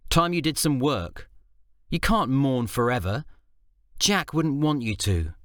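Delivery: lightly voiced stern wife. Faye lecturing husband.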